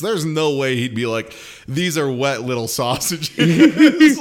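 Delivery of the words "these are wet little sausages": slow laughing mock. Mocking the dim suitor.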